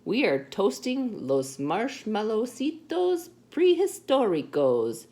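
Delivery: high, slow, showy holler. A narrator's reading. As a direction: call it out with relish, stretching the words. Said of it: "hollered the Chihuahuas".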